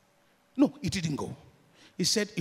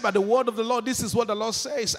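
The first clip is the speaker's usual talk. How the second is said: higher and louder prophetic declaration; loud proclamation; 5 semitones higher, 5 dB louder than usual. Real, not acted. Preacher announcing the Lord's word, loud proclamation. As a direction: proclaim it with full force.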